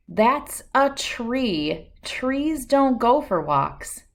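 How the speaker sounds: slow, drawn-out doubtful neighbor; skeptical neighbor. Acted. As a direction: spell it out for the odd little girl. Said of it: "her neighbor asked".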